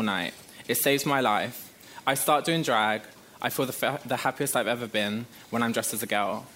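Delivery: measured, confessional spoken-word reading; steady, sincere recital of a memoir piece; reading a personal timeline. Acted. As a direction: read out your life year by year, pausing between entries.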